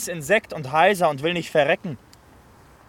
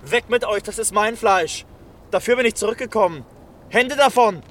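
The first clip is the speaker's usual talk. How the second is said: higher, louder, rushing defiance; fierce protective outburst; defiant shouting; 4 semitones higher, 4 dB louder than usual. Acted. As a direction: drive the mob back, building to a yell. Fighting mob off his wife.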